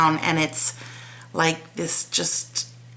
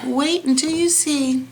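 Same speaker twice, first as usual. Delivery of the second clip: excited; 9 semitones higher than usual. Real, not acted. Teasing reveal, said twice.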